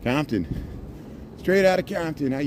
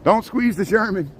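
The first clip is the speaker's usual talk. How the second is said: a lightly sung-out ad slogan, pitched higher; Mister Whipple catchphrase; 8 semitones higher than usual. Retold or imitated. Vlogger recalling an old TV ad, mock commercial voice. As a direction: quote the old Charmin commercial in its voice. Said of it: "Mister Whipple".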